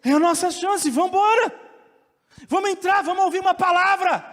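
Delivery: loud, high, driving preacher cry; preaching at full force. Acted. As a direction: proclaim it to the whole church.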